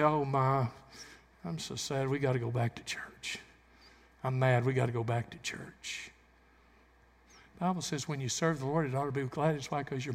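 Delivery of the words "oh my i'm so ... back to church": mock the reluctant churchgoer; mock grumbling churchgoer. Preacher mocking folks who moan about church, sulky. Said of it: "Some say".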